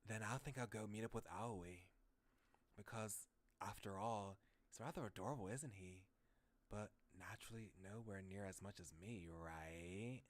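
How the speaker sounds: acted reading of a game hero's thoughts; visual-novel monologue. Game protagonist deciding whom to visit, theatrical musing. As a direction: muse it through theatrically.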